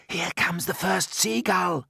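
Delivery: ordinary delivery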